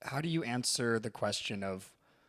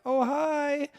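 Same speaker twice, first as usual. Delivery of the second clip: chirpy hi; 5 dB louder than usual. Retold or imitated. Cheerful greeting in retold scene.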